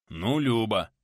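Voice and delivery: mildly gruff reply; grunted admission. A narrator's reading. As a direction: admit it grudgingly. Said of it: "буркнул тот в ответ".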